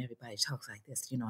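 hushed, quick mimicry of whisperers; imitated whispery talk. Comedian mimics the new-school actors at table read, hushed. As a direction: talk very softly and fast, mocking the whisperers. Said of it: "I kept calling them the whispers".

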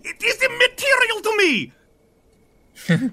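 airy indifference. Acted. GM voicing Ivan, airy dismissal.

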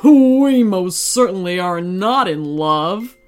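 loud, slow, emphatic tiger denial; roared. A narrator's reading. Tiger denying love for the unicorn, indignant roar. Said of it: "roared the tiger".

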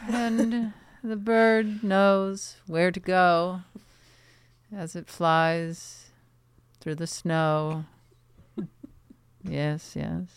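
slow, solemn poet recital; dramatic poetry reading. Pretend. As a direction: intone it like a pompous poet. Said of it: "went into this character".

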